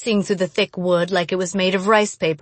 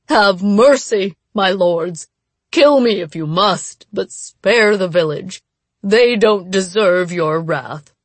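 slow, louder frightened pleading; terrified begging; 4 dB louder than usual. Acted. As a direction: plead on your knees in fear. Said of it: "shaking and terrified".

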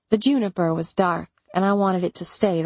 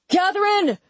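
high, loud call through a door; shouting her name in alarm; yelled; 13 semitones higher, 3 dB louder than usual. Acted. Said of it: "Elliot yelled".

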